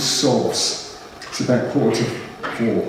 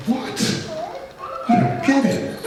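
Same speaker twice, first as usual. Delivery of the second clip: whispered confusion; 14 semitones higher, slower than usual. Retold or imitated. Retold moment of confusion.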